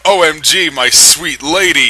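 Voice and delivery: a touch of high, gushing romantic hero; lightly hammed-up swooning vampire; gushing Edward. A narrator's reading. Narrator voicing Edward rescuing her, mock gushing. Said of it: "he cried".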